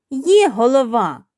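loud, drawn-out chick's protest; exclaiming. A narrator's reading. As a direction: exclaim it loudly, stretching the words. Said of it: "вигукнуло курча".

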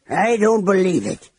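fierce. A narrator's reading. Flint denying friends died in the rubble, fierce. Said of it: "Flint said fiercely".

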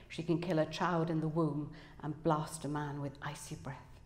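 measured, dramatic book reading; author's reading voice, pausing between phrases; story narration. A narrator's reading. Author reads novel excerpt aloud.

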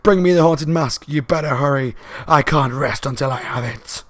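half-hearted ghostly scream; mock scream. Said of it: "she basically screams".

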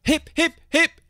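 high, loud celebratory hurrah; hooted cheer. A narrator's reading. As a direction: lead a triumphant cheer, slowing at the end. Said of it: "They hooted".

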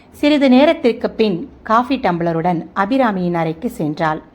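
plain reading voice

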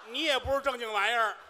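indignant retort. Acted. Partner snaps back at old man.

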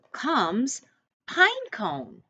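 pine cone sung out high; a lift of surprise on pine cone; bright announcement. Acted. Reading to a child, a high bright pine cone.

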